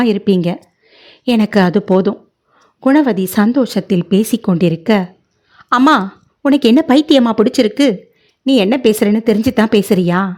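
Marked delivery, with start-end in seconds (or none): 5.7-10.3 angry outburst. Acted. Malli erupts at her mother, angry and faster. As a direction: lash out at her mother in disbelief. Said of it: "மல்லியின் கோபம் எரிமலையாய் வெடித்தது".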